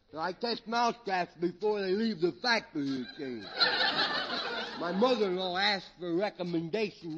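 slurred, tipsy comedy character; comic drunk. Acted. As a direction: play a rambling drunk for laughs. Drunk describes his job.

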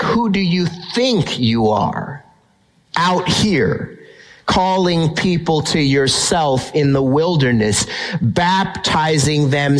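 slow, pointed, confrontational questioning; forceful challenge. Shown as a demonstration. Preacher rereads the Levites' question as a hostile challenge, slow and forceful. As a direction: press each phrase like an accusation. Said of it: "read that a little bit more forcefully".

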